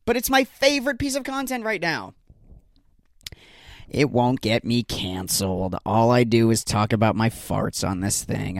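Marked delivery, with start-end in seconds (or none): 3.9-8.6 mock serious. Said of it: "I'm just messing around".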